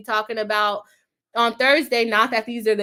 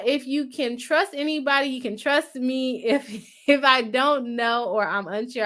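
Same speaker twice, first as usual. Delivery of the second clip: talking with a numb face; stumbling over words, half-numb mouth. Real, not acted. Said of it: "I can't talk".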